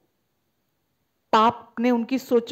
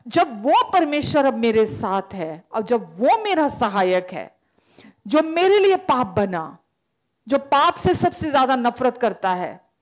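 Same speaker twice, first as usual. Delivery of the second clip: raised, insistent run of declarations; impassioned preaching; 4 semitones higher than usual. Acted. Preacher assuring the congregation God is for them, impassioned. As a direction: preach each promise with rising conviction.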